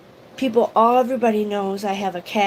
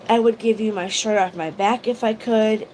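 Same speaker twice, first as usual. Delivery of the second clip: ordinary talk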